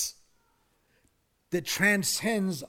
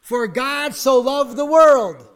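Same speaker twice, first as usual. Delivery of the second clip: louder, slow, booming recitation; preacher leading the congregation in the verse; loud call-and-response; 8 semitones higher, 14 dB louder, slower than usual. Shown as a demonstration. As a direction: lead the whole room in saying it. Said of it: "Say that with me".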